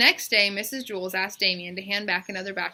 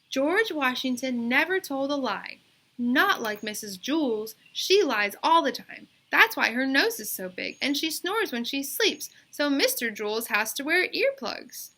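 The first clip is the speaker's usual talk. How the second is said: put-on girl's insistent voice; 6 semitones higher, 5 dB louder than usual. A narrator's reading. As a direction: draw out the yes like a stubborn kid. Bebe reads report aloud.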